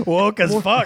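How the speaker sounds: shouting it through a laugh; cracking up while yelling the line; laughing yell, teasing his friend. Real, not acted.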